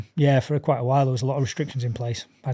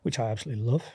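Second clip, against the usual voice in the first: dry deadpan sarcasm; sarcastic; 6 dB quieter, faster than usual. Real, not acted. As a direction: say it flat, meaning the opposite. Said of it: "the sarcasm there".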